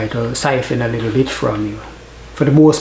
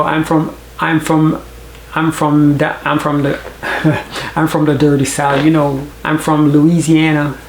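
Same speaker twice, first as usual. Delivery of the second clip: Southern US accent. Shown as a demonstration. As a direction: show off a Southern US accent as a Jamaican would try it. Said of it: "I would sound something like this".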